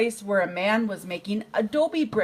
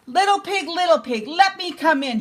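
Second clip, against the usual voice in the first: put-on higher, wheedling weak old voice; frail old coyote voice; 8 semitones higher, 4 dB louder than usual. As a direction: fake being old and toothless to get in. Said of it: "pretended to be very old and weak".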